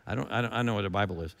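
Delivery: Paul puzzled. Retold or imitated. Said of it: "Paul goes".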